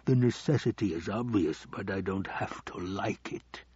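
a hint of a calculating Baron, weighing each point; scheming Baron.

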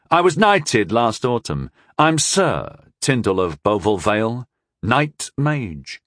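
smug. Acted. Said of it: "with too much satisfaction".

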